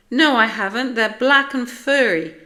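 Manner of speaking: high, loud denial; stung, high-pitched protest; indignant retort. A narrator's reading. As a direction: snap back loudly in self-defence. Splat retorts to the teasing.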